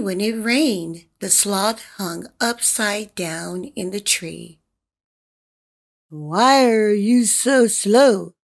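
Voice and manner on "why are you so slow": monkey voice. Acted. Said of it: "the hollow monkey asked".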